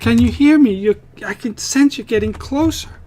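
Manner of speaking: high woman's voice calling out loudly. Narrating to players trapped in a tomb, the voice keeps calling: woman calling for help. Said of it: "with a female voice calling out to you".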